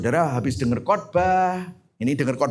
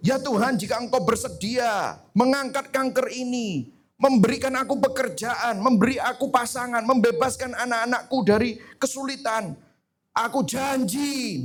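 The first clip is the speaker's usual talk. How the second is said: doa tawar-menawar ditiru; 8 semitones higher than usual. Retold or imitated. Meniru doa tawar-menawar dengan Tuhan.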